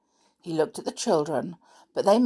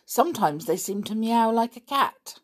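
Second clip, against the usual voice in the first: bright; 6 semitones higher than usual. Acted. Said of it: "said Dick brightly".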